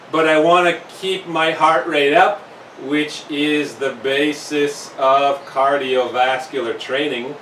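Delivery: slightly winded, catching breath. Real, not acted. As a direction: talk while still a bit winded. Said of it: "I'm a little bit winded as I speak".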